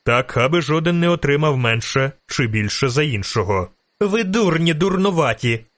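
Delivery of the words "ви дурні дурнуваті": high scolding shout. A narrator's reading. Milva shouting at the fighters as she whips them. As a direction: yell at them while lashing with the belt. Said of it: "кричала".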